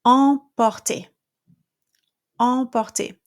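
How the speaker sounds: emporter with the open nasal en, no M; French nasal. Shown as a demonstration. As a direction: drop jaw for emporter. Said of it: "next one is".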